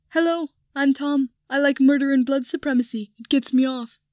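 high, loud sneering mock voice; snotty voice. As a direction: sneer it out like a spoiled brat. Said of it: "she put in a snotty voice".

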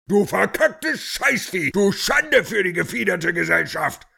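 taped rant. Acted. Tape rant continues.

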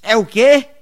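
pergunta aguda e bem alta de quem é meio surdo; sem ouvir nada. Acted. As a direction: pergunte quase gritando, sem entender. Convidado continua sem ouvir. (convidado que não escuta, bem alto)

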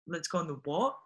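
mildly puzzled mock question; baffled. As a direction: query the word as if never heard. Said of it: "they had never heard of that word".

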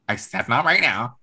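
insistent, firmer refusal; mildly annoyed insistence; firm retold brush-off. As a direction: repeat it as an irritated snub. Acted firmer repeat of brush-off.

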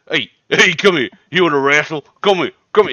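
high, loud playful calling, laughing. Acted. Host tries to wrestle the small hero, playful and loud. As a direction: coax him over like a puppy.

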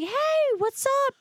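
breezy friend. Retold or imitated. Friend greeting her on the street. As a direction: play the lovely friend's easy hello. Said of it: "she's like".

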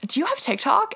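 high-pitched quoted question; imitated bar stranger. Guy coming up to her at a bar, imitated. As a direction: lift it up as a stranger asking.

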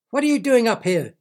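high, loud squawking yell; yelling bird. Acted. Big black bird yells at Derek in the air, squawking yell. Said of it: "yelled the bird".

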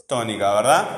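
normal talking voice

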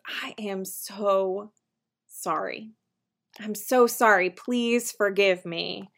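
slow, soft, sincere "I am so sorry"; heartfelt apology. Shown as a demonstration. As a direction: plead gently, drawing it out. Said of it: "an apology that says".

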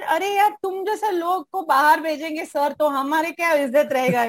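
rapid Hindi in a north Indian accent, imitating the professor. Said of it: "What a accent".

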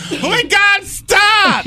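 high mock cry for help; panicked pleading. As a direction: shriek it as if being drowned. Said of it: "because he was in the water being attacked".

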